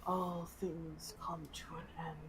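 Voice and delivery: soft whispered dying farewell; dying dragon whisper. Acted. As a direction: gently whisper the goodbye. Dragon comforts her.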